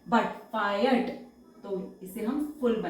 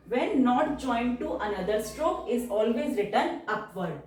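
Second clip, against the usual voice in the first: slow rule reading; much slower than usual. Shown as a demonstration. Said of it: "reads rule slowly".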